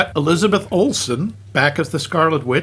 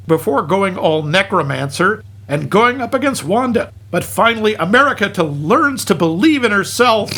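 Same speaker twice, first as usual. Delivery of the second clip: comic film recap; 2 semitones higher than usual. Acted. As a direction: lively recap narration with punched asides. Reads a hammed-up film recap.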